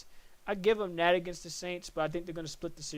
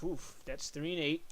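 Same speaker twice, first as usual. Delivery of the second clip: yawning; 5 dB quieter than usual. Real, not acted. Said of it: "Sorry about that, I'm yawning".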